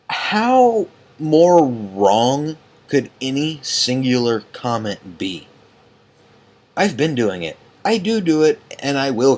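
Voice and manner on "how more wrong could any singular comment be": incredulous. Real, not acted. Indignant at the insult.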